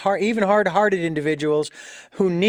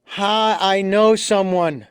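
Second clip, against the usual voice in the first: mock caller; 2 semitones higher than usual. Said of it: "Oh yeah, I have this friend with this problem".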